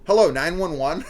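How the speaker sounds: high, loud hello breaking into laughter; mocking a caller. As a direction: do the bad phone acting, cracking up. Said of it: "Yeah, just".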